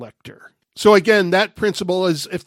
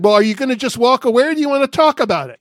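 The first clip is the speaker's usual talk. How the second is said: retold shout; 6 semitones higher, 4 dB louder, faster than usual. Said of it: "but I shouted after him".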